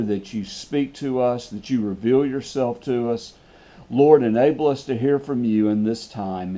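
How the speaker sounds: earnest spoken prayer to the Father. Acted. Pastor opening the study by praying to the Father, earnest. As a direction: pray it humbly and earnestly.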